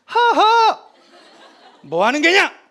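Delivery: 높고 크게 웃어젖히는 왕; 기세로 눌러 버리려는 큰 웃음; 호탕한 비웃음. Retold or imitated. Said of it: "태종이 지겠습니까?". (버티는 세종을 비웃는 태종의 큰 웃음)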